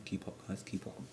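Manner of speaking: talking between sips of a drink; sip, then speak softly; sipping through a straw. Real, not acted. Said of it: "I'm drinking".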